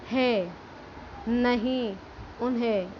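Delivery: है, नहीं, उन्हें each with a nasalised vowel; nasal demo. Shown as a demonstration. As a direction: model है नहीं उन्हें with air through the nose. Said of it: "तो ये उच्चारण ऐसा होता है". (है नहीं उन्हें अनुनासिक स्वर में)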